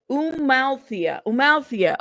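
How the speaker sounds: Amalthea said as oo-mal-THEE-a, drawn out then firmer; careful repeat of a newly learnt Amalthea; practising the name. Real, not acted. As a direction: repeat Amalthea with an "oo" start, falling at the end. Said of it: "help me with the pronunciation".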